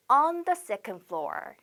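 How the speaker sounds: drawn out so students can copy; slow model phrase. Shown as a demonstration. Teacher modelling the phrase for students, slowly. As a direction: say it slowly and clearly. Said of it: "이렇게 on 쓴다는 거 꼭 기억하셔야 됩니다".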